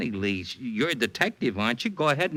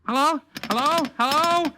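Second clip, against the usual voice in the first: rising, higher and louder hellos; each hello climbing more desperate; frantic calling; 11 semitones higher, 4 dB louder than usual. Acted. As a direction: call into a dead phone line. Line goes dead, calling out.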